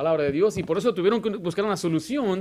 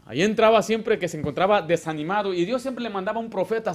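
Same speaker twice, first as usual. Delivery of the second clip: ordinary talk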